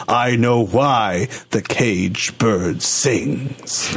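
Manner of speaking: slow, measured poem reading; poetry recital. Acted. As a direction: recite it solemnly, drawing out the last line. Reads a poem aloud.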